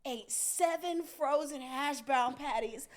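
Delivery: drawn-out telling, rising at the end; mock-appalled dad, measured out; slow incredulous report. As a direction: spell out the outrage slowly, then lift. Dad reports the horror to mom.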